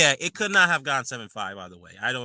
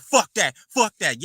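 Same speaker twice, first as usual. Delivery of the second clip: louder, rough "Fuck that" repeated; angry retort; 4 semitones higher, 5 dB louder than usual. Retold or imitated. Joshua snapping at Lomachenko, angry. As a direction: spit it back at him. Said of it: "He's like".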